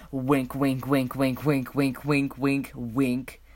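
playful repeated wink, wink; audible winking. Pretend. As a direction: say wink like a cheeky hint. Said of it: "You can stop winking now".

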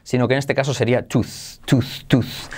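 "tooth" with a long Spanish U sound. Shown as a demonstration. Teacher correcting own vowel for students, "tooth" with a long U. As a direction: stretch the U in "tooth" fully. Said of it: "claramente con una U española".

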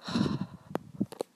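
long voiceless sigh; heavy sigh. Real, not acted. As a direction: let out a heavy breath. Pauses after revealing the cut sideburn.

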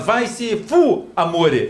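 slow, drawn-out sugary curse; mock sweet insult. Friend mimics a rude reply softened with love, slow and sugary. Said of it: "fala que não adianta".

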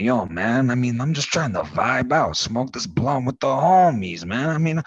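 pirate drifting into a lightly voiced laid-back dude; a hint of mellow slacker in a lost pirate accent; pirate voice slipping. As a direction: let the pirate accent slide into easygoing stoner talk. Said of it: "it's not as much piratey anymore".

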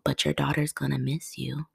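quiet sly whisper of guilt. Pretend. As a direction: murmur it like a nagging inner voice. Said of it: "it whispers in your ear and it says".

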